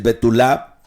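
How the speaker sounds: "betulá" with the accent on the last A; stress on final A. Shown as a demonstration. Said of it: "con acento en la última A".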